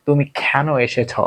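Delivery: তুমি কেন এসেছ with কেন said as খ্যানো; British-style aspirated k. Retold or imitated. Teacher imitating the British way of saying তুমি কেন এসেছ. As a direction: breathe out hard on the k of কেন. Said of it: "এইভাবে কিন্তু ওরা উচ্চারণ করে".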